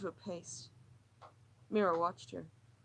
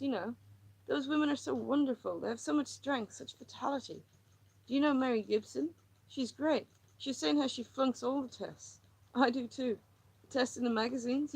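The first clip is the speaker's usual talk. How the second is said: higher, tense, pleading woman; distressed woman; 4 semitones higher than usual. Acted. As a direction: pour out her misery, near breaking. Lily's monologue continues.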